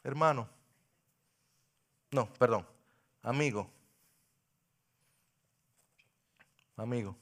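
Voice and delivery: soft, low pastoral appeal; quiet, tender sermon close; intimate altar call. Acted. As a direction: speak gently to each listener.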